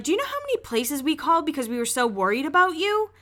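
retelling a worried friend's telling-off in a rush; mild mock anger. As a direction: tear into them quickly, but keep it light. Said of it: "she gets mad at them".

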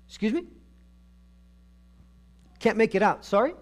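as if straining to hear a muffled caller; mock not hearing. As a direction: play someone who can't catch the words. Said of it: "God closes his ears".

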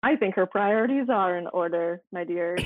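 dry, sarcastic agreement. Real, not acted. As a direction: say it with heavy irony. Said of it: "I'm being very sarcastic".

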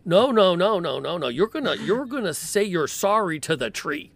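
loud, high Brooklyn tough-guy elf scolding; a Brooklyn wiseguy elf telling off a trespasser. Acted. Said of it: "I've always loved the idea of elves sounding like they're from Brooklyn".

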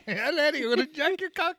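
high-pitched mock Irish lilt; Irish accent. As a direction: put on a jokey, high Irish brogue. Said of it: "Can you do an Irish accent".

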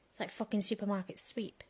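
hushed, quick whispered aside. Real, not acted. Comic to her viewers about supermarket sexting, whispered. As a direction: whisper it like a cheeky secret.

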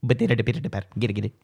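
lightly voiced sitcom catchphrase patter; a hint of an impression in nonsense patter; Kramer. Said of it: "attempting to do my Kramer impersonation".

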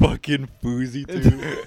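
slow, laughing imitation; laughing mock voice. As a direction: laugh through the name slowly. Retold line, laughing.

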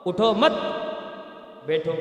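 "اٹھو مت" together, pause, then "بیٹھو"; pause after مت. Shown as a demonstration. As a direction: break for breath after "مت", before "بیٹھو". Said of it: "مت سے پہلے جو ہے سانس لینے کا مسئلہ". ("مت" کے بعد وقفہ، پھر "بیٹھو")

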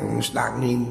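mustangin said plainly and short, as the correct form; plain correction. Shown as a demonstration. Preacher contrasting the forbidden reading, plain. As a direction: say mustangin quickly and evenly. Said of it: "nggak oleh".

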